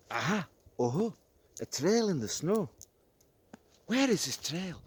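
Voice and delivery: put-on child delighted at the tracks; excited discovery. Child finds a trail.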